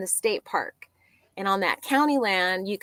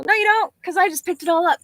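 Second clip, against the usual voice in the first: emphatic retort; 11 semitones higher, 6 dB louder, faster than usual. Retold or imitated. Retorting to the passerby.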